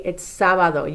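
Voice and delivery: "sábado" with the first A stressed. Shown as a demonstration. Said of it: "accent mark here over that first A".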